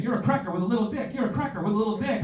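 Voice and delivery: high loud mock taunt; sing-song the insult; taunting ladies. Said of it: "they were saying".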